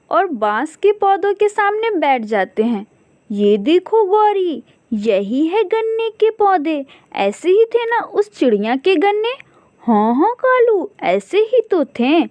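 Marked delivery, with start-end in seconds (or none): 3.3-12.2 eager crow voice. Acted. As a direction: show off the find, pitched up. Crows excited over cane.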